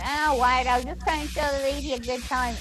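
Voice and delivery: mild mock whine, quick at the end; whining. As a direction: imitate a whiny excuse. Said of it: "And he whines away".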